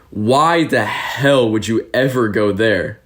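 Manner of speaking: slow, drawn-out incredulous question; retold disbelief. Taxi driver to new English teacher bound for Vidin, mock disbelief. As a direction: stretch it out like an appalled driver, retold.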